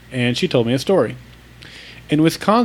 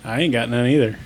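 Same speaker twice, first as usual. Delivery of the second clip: mock Oklahoma accent; faster than usual. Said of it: "Hearing your Oklahoma accents".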